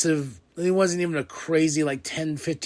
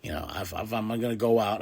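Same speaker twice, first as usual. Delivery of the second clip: quiet; 7 semitones lower, 8 dB quieter than usual. Retold or imitated. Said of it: "I'm wondering if Brock's like".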